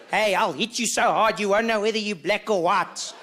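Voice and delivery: put-on tough-guy threat; mock threat. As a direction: act out trying to intimidate someone. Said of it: "Some of the best threats".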